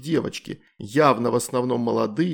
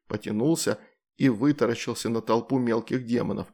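plain reading voice

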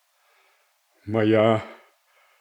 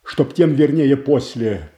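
higher and louder, a hard demand for proof; angry challenge; 5 semitones higher, 3 dB louder than usual. Acted. Boyar to Godunov, accusing him of a trap, angry and raised. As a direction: throw the distrust straight at the rival.

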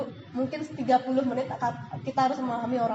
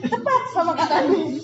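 louder, laughing pitch; laughing promo; 4 semitones higher, 8 dB louder than usual. Real, not acted. Jokes to the audience about learning from Kak Rani, laughing. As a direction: sell it while laughing.

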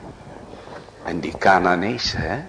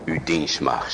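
humble Abigail; 5 semitones lower, 4 dB quieter than usual. Acted. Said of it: "zegt ze".

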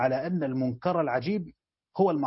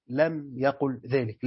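slow, deliberate reading of the answer clause; slow emphasis; 3 semitones lower, much slower than usual. Shown as a demonstration. Teacher stressing the answer to students, slowly. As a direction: draw each word out to stress it. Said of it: "لم يقل ذلك دي".

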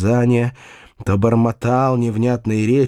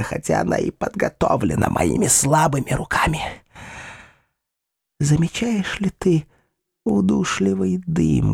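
put-on gloating old woman; 3 semitones higher than usual. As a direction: savour every threat. Gloating voice of Ulrica.

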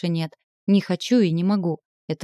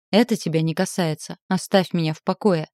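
повысила голос. Acted. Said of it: "повысила голос".

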